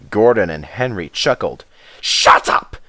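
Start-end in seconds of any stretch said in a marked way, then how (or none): 2.0-2.8 snapped, breathy retort; snapped shut up. Acted. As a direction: James cutting them off. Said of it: "said James".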